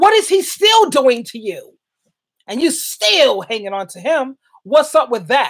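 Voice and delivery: worked-up, impassioned, passionate rant with swooping pitch. Pressing the listener with questions; getting loud. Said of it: "I'm getting a little loud here".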